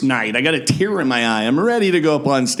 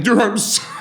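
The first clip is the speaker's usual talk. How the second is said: laughing apology; 8 semitones higher than usual. Retold or imitated.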